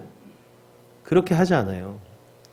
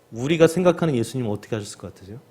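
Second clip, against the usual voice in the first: ordinary talk, nothing marked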